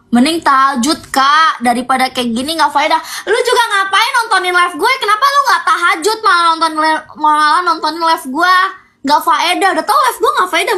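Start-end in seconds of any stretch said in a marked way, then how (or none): 3.2-10.8 higher, playful scolding; teasing scold. Real, not acted. To late-night viewers, playful high scolding. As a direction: tease them for watching instead of praying.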